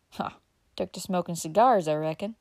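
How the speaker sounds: chatty rural uncle, puffing after sitting; old country uncle. Acted. Uncle Bobby chatting to Dick in the print shop, folksy old man.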